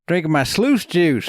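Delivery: put-on high cackling old miner; old prospector. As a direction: boast like a grizzled gold miner. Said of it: "guy, prospector".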